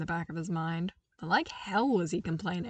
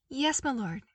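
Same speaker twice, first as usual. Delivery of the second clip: smiling; 6 semitones higher than usual. Acted. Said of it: "he agreed with a wide smile".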